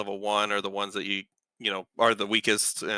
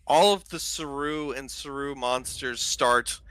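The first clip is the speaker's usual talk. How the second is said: raised, slowed storytelling voice; game master narration; 2 semitones higher than usual. Acted. Game master describes the battle to players, in vivid narration. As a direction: paint the scene for the table.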